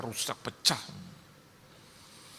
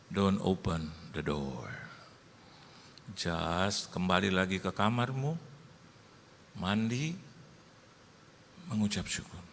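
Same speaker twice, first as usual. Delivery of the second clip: voice of God; 2 semitones lower, slower than usual. Retold or imitated. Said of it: "saya dengar itu roh Tuhan bilang sama saya".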